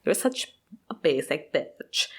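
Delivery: unvoiced, slow contemptuous whisper; whispered insult. Vlogger mocking Anna's voice, whispered contempt. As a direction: breathe it out with disdain. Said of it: "That's how she talks".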